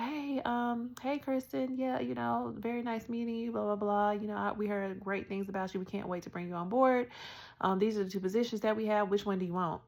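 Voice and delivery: lightly voiced upbeat recruiter on a call; Jen Rutledge's phone voice. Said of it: "She's like".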